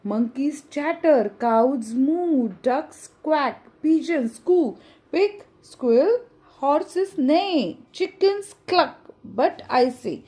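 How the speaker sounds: put-on slow, sing-song reading of a children's poem; teacher reading a rhyme aloud to pupils, sing-song; poem recitation. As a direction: recite each line to the class, stretching the words.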